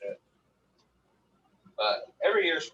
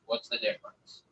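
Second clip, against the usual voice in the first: incredulous squeak; 4 dB quieter than usual. Retold or imitated. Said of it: "I'm like".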